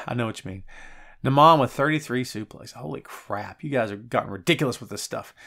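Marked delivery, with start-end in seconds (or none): 0.1-0.6 sigh, then whisper it unvoiced. Real, not acted. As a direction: breathe the words out with no voice. Sighing reply to chat.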